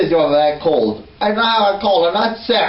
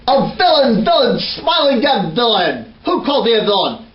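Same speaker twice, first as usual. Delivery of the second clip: hammed-up villain rant; 5 semitones higher than usual. Shakespearean villain rant on stage.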